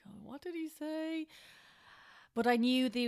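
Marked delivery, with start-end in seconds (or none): 0.1-1.3 panicked inner thought. Retold or imitated. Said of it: "And I was like".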